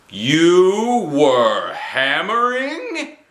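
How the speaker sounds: high, slow, loud disbelieving yell; can't believe her eyes. A narrator's reading. Mother yelling at Junie B about hammering. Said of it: "she yelled".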